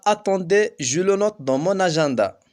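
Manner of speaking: agenda said slowly and clearly in French, each syllable separate; slow example sentence. Shown as a demonstration. Teacher reading a French example slowly to pupils. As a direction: read the example slowly like dictation. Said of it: "مثال على هذه الكلمة".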